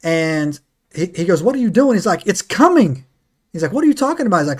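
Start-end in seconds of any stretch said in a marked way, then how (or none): 1.4-2.0 high-pitched, urgent retold question; mock-urgent higher-pitched question; acted alarm. Retold helicopter crew confronting gunner. 2.3-3.0 higher-pitched retold warning; imitating a frightened man's alarm; acted panic. Retold gunner seeing a demon. 3.7-4.4 very high-pitched retold question; mock-incredulous, pitched way up; acted bewilderment. Retold crewmate disbelieving gunner.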